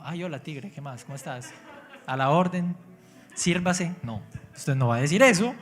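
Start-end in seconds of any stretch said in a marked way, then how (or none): 0.0-3.9 casual greeting. Retold or imitated. Preacher mocking someone chatting calmly with a tiger. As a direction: greet the tiger as if it were a neighbour. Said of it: "pues no se va a quedar aquí como".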